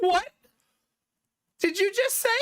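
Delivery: mock outrage. Mock outrage at son's insult.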